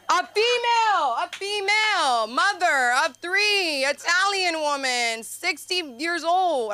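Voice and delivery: high, slow, emphatic listing; mock outrage. Telling the crowd about her gynecologist, high and slow in mock disbelief. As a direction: spell out each detail with rising disbelief. Stand-up set: describing the uncomfortable gynecologist.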